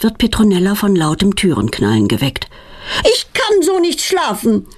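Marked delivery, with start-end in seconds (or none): 3.0-4.7 high-pitched narrated yell; mock roar. A narrator's reading. Mother yelling through the flat at night, high mock yell. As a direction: bellow it through the whole flat. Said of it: "brüllt Petronellas Mutter laut".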